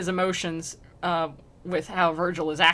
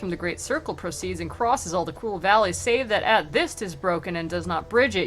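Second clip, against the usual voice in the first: measured verse read aloud; poem reading. A narrator's reading. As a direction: read the old verse evenly, like a narrator. Reads Dante aloud, slow verse.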